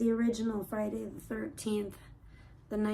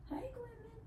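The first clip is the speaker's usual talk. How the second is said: much higher, cooing pet voice; 12 semitones higher, 10 dB quieter than usual. Real, not acted. Baby talk to cat.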